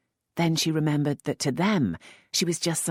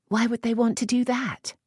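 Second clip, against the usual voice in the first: a touch higher, hushed question; lightly voiced young lady; 10 semitones higher than usual. A narrator's reading. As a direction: Lisette asking the earl in the dark, lightly higher. Lisette voiced by narrator.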